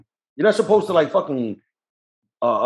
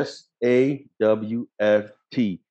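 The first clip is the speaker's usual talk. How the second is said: slow, deliberate joke spelling; mock spelling-out; 4 semitones lower, much slower than usual. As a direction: spell it slowly, letter by letter.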